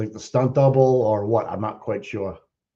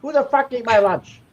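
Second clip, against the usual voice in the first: goofy high voice; 9 semitones higher than usual. Pretend. Goofy bit while watching a stream.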